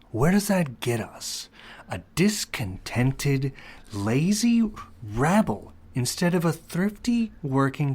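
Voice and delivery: a lightly voiced scornful old banker, slow in places; stern Mr. Potter. Potter scolding the businessmen about Peter Bailey, lightly voiced and scornful. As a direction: lecture the room on the rabble with cold contempt. Reads Potter in scene reading.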